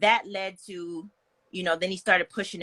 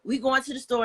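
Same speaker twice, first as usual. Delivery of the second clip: higher, firmer voice of a friend who won't back down; friend insisting; 6 semitones higher than usual. Retold or imitated. Friend refusing to leave her with him, firmly higher. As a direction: insist she's coming, raised pitch. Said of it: "She was like".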